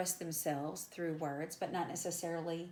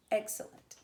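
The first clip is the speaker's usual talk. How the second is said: excellent with a higher, stressed "ex"; dactyl stress; 3 semitones higher, 3 dB louder than usual. Shown as a demonstration. Teacher showing students a dactyl, excellent stressed on "ex". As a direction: stress the first syllable of excellent, then two light ones. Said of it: "It's stressed, unstressed, unstressed".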